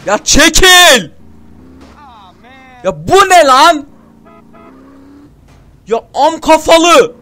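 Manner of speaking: furious yelling. Real, not acted. Gamer raging at stupid game characters, furious yelling. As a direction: blow up at them.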